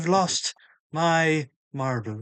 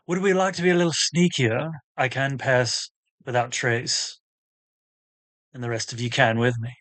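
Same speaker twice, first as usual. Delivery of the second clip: put-on Australian accent; 4 semitones lower than usual. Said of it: "you went Australian with that one".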